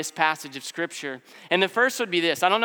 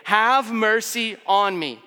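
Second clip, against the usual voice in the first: mock shout; 3 semitones higher than usual. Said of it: "he's yelling".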